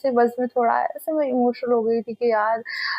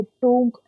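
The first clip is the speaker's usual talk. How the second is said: imitated thud sound; much slower than usual. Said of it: "ऐसे टोंक करके".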